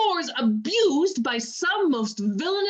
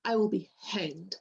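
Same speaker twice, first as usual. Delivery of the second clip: whispered; 8 semitones lower, 7 dB quieter than usual. Acted. Emilia rails at unknown slanderer.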